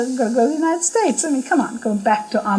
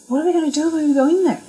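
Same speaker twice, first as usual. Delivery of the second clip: nervous fretting; 6 semitones higher, much faster than usual. Retold or imitated. Mick fretting before meeting Baba.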